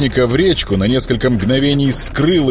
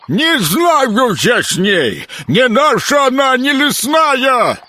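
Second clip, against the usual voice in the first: high, slow protesting creature; swamp creature voice; 13 semitones higher, slower than usual. Acted.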